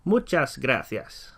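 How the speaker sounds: "Muchas gracias" at half speed; teacher drilling the phrase; slow model. Shown as a demonstration. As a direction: lay out "Muchas gracias" slowly. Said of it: "as we say the words in Spanish".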